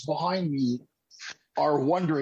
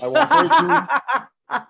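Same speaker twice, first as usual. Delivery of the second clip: laughing swagger; 10 semitones higher, 7 dB louder, much slower than usual. Retold or imitated. Strutting past the waiting line.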